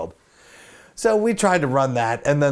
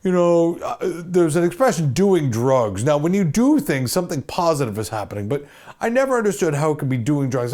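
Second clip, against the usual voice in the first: stern dean; 3 semitones higher than usual. Retold or imitated. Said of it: "this guy, Goudreau, is like".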